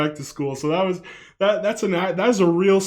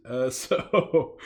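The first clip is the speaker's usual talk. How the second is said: ordinary talk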